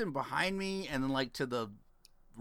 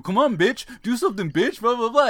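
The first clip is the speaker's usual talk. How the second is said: mock cholo taunting; 8 semitones higher, 6 dB louder than usual. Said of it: "It's like".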